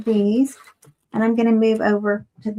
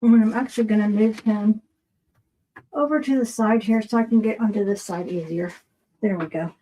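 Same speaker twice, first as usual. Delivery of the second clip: mouth full. Real, not acted. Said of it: "I had the stuff in my mouth".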